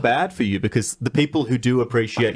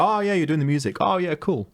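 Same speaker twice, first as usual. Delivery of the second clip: higher-pitched small-talk enthusiasm; feigned polite interest; 8 semitones higher than usual. Acted. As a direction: play a punter making chummy small talk, pitch lifted. Acted punter making small talk at bar.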